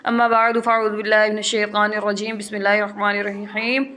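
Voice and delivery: measured Arabic blessing, a touch of chant; recited invocation. Acted. Teacher opens the Quran class with a recited blessing. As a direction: open the class with a reverent recitation.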